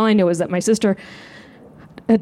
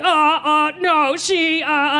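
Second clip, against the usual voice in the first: high, halting cover-up; flustered stammer; 8 semitones higher, much slower than usual. Retold or imitated. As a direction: stammer as if caught out, pitched up. Sister scrambling to cover.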